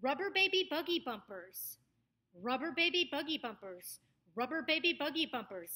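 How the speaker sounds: put-on quick, bouncy B's in BABY BUGGY BUMPERS; popping B's. Shown as a demonstration. Coach offers one for the B's, BUGGY BUMPERS crisply said. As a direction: pop each B in RUBBER BABY BUGGY BUMPERS. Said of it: "a good one for the bees".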